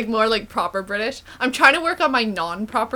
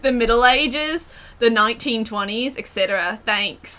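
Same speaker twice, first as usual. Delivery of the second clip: reading aloud in an Australian accent. Shown as a demonstration. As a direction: keep the Australian accent through the list. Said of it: "the et cetera was so good".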